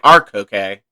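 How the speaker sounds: "Coke" said KOH-kay, like a Spanish name; two-syllable Coke. Shown as a demonstration. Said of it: "it's different from".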